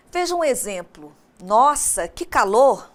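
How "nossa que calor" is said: exclaimed louder, full exclamatory tune; exclamation. Shown as a demonstration. Teacher showing the class exclamation intonation, loud and exclaimed. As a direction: blurt it out like the heat just hit you. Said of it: "Viram só a entonação?".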